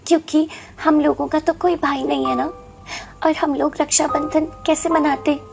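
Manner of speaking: understated wistful big sister; tearful sadness. Acted. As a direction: explain gently with tears welling up. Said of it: "Meenu की आंखों में आंसू आ जाते हैं".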